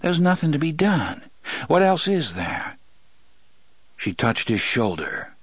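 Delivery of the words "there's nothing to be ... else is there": patient. Acted. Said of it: "She said patiently".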